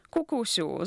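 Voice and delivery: "Kukusiu" with each vowel drawn and stressed; accented vowels. A narrator's reading. Wanda starts to calm Kuka, stressing the vowels in "Kukusiu". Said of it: "akcentując samogłoski".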